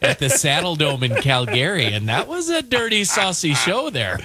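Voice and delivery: lightly imitated Alberta accent, lilting up at the end; playful mock Alberta accent. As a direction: mimic an Albertan fan, drawing out the last words. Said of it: "in that Alberta accent".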